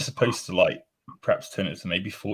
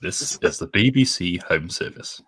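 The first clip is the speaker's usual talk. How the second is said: put-on English accent; 2 semitones lower than usual. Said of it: "with your lovely English accent".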